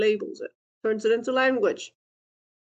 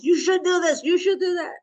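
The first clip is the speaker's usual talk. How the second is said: critical parent voice; 4 semitones higher than usual. Retold or imitated. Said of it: "when you hear that critical voice".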